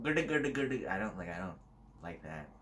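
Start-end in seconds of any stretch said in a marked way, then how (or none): 0.0-0.9 higher nonsense-syllable Indian accent; mock Indian accent. Shown as a demonstration. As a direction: babble a quick caricature Indian accent. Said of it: "an Indian accent".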